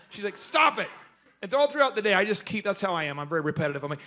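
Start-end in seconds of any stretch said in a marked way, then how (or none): 0.4-0.9 imitated coworker's higher-pitched objection; exasperated protest. Coworker fends off repeated questions about dying, exasperated. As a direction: push back on the nagging, pitched up.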